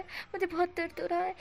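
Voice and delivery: hammed-up repeated complaint; whinier repeat. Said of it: "wing इस तरह से बोल रहा था".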